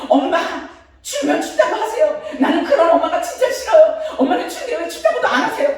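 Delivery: high, loud scolding son imitation; imitating her son. Son scolding his mother for hiding the cold, high and loud. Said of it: "그 큰아들이 오더니 이러는 거예요".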